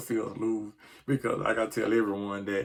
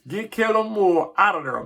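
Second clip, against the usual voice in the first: frustrated demand; 8 semitones higher, 5 dB louder than usual. Real, not acted. Ranting about the coordinator.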